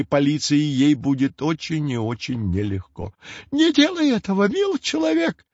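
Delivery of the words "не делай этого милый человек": put-on high, whimpering old-witch plea; whining hag. A narrator's reading. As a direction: whine pitifully like a crone begging. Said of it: "заныла она опять". (ноющая старуха)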